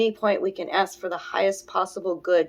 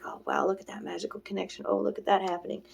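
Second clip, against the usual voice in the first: acted wonder; 7 dB quieter than usual. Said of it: "And I'm like".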